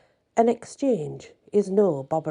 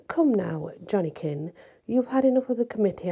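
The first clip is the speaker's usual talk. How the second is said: saucy small voice. Acted. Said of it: "cried a saucy small voice".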